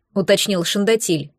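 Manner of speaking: plain reading voice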